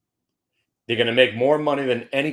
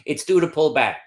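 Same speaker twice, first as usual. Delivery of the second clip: laughing; 5 semitones higher, 3 dB louder than usual. Real, not acted. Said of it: "I'm laughing when I say that".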